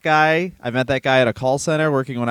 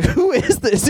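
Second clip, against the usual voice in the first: imitating a groggy customer; 9 semitones higher, slower than usual. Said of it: "And the guy's like".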